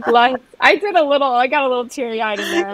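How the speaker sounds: half-laugh while admitting tears; teary laughing. Real, not acted. Cohost admits tearing up, laughing.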